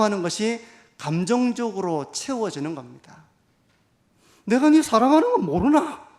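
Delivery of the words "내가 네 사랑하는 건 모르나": mock-angry shout, much higher and louder; angry scolding. Pastor playing a parent yelling love at a child, mock scolding shout. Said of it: "막 화내면서 막 야단치면서".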